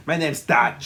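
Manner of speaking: thick mock Austrian accent; Schwarzenegger. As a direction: introduce yourself in a hammy Austrian accent. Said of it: "he talks the way he does".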